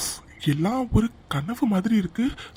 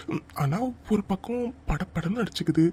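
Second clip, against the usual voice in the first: nervous murmur; 5 dB quieter than usual. Acted. Heart racing, nervous groom.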